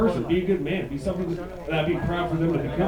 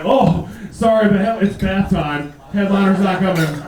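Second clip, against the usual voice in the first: mock venue apology; 5 dB louder than usual.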